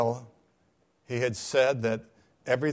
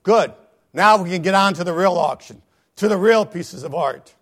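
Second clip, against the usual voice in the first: crowd shout; 6 semitones higher, 13 dB louder than usual. Acted. Crowd cheering to move on.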